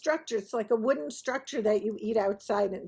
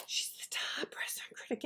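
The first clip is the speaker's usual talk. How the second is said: imitated stage whisper; hushed awe; 11 dB quieter, faster than usual. Restaurant owner telling guests about the critic, awed whisper. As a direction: whisper it like important inside information.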